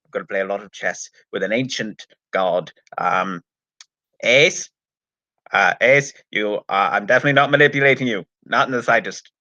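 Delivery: a hint of a character impression; Sylvester McCoy. Podcaster doing the Doctor talking to Ace, light impersonation. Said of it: "than I do Sylvester McCoy".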